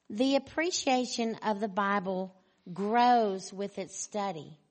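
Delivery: measured reading, key words punched loudly; emphatic quote reading. Acted. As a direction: read it out firmly, phrase by phrase.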